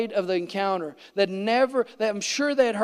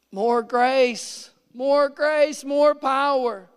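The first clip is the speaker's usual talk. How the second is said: higher, building insistence; insisting on more despite the pain; pressing plea; 4 semitones higher, much slower than usual. Retold or imitated. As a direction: push through, asking for more.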